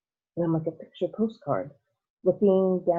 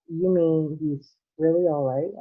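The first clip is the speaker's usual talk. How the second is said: astonished; 4 dB louder, slower than usual. Acted. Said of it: "asked Charlie, astonished".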